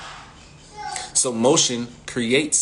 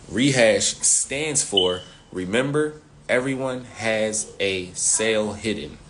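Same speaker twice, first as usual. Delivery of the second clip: slow, deliberate, each word laid out; slow spelled-out definition; slower than usual. Shown as a demonstration. Coach slowly spelling out the acronym, deliberate. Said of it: "That is what rehash stands for".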